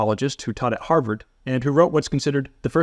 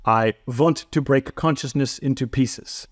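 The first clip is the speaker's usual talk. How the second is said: slow, lightly put-on German accent; a touch of a German accent, slow; slower than usual. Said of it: "my terrible German accent aside".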